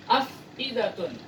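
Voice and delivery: "Afidatun" said slowly; slow Quranic reading; slow recitation. Shown as a demonstration. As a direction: read it slowly and clearly. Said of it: "Ini cukup jelas ya".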